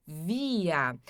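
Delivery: Wir said as via, W like V; German pronunciation. Shown as a demonstration. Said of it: "O W também sempre tem som de V aqui". (Wir pronunciado via)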